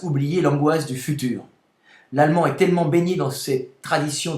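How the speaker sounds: forceful recital of a written text; reading aloud. Real, not acted. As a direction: proclaim the text phrase by phrase, with pauses. Reads own text aloud.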